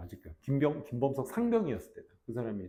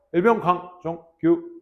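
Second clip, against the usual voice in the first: private first class call-out; 3 semitones higher, 6 dB louder, slower than usual. Shown as a demonstration. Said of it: "이렇게 얘기하는 거야".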